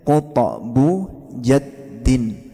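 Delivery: "kutokbu jaddin" very slow, bouncing stops; drawn-out teacher's model of "kutokbu jaddin"; model for repeating. Shown as a demonstration. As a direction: separate each syllable of "kutokbu jaddin". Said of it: "Tirukan saya".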